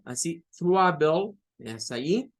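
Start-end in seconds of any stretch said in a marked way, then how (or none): 0.6-1.4 "trouble" slowed, syllables set apart for learners; stress on last syllable. Shown as a demonstration. Teacher repeating the example word, "trouble" modelled slowly and deliberately. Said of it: "la fuerza de voz es en la última sílaba".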